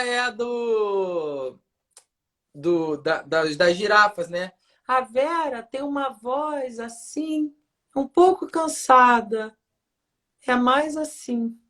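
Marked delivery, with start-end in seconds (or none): 4.9-11.6 put-on higher, tired older woman's voice; a weary aunt, pitched up; Tia Vera voice. Shown as a demonstration. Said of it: "o pessoal tá pedindo pra você fazer a Tia Vera".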